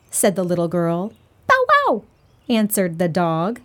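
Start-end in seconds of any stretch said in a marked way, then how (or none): 1.5-2.0 dog bark. Acted. Dog answers in story.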